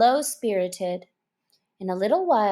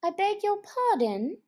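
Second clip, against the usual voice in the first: humbly; 11 semitones higher than usual. Acted. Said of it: "said Alice very humbly".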